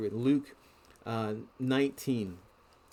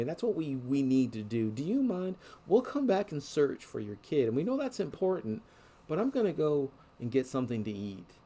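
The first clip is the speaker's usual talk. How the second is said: brother's casual plea. Retold or imitated. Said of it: "my brother came to me and said".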